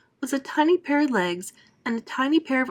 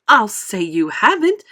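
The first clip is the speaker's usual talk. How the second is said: cried out; 2 semitones higher, 8 dB louder than usual. A narrator's reading. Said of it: "cried Missus Beauregard".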